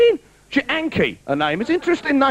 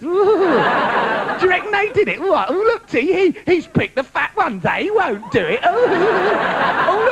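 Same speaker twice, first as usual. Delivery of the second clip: nosy gossipy viewers, oohing and laughing; lightly voiced couch gossip, giggly; mock viewers at home. Viewers at home gossiping about the couple, mock nosy oohing. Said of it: "We're all sat at home going".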